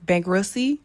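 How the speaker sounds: "Bankruptcy" as a questioning "bank-russy?"; puzzled "bank-russy?" for "Bankruptcy"; questioning the slip. Shown as a demonstration. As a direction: try "Bankruptcy" without p or t, rising at the end. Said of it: "why I said bankruptcy like that".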